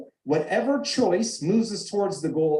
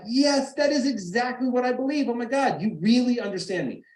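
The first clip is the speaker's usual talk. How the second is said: higher, gushing relief at being understood; delighted agreement; 8 semitones higher than usual. Retold or imitated. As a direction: play the wife thrilled to be understood. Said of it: "she'd be like".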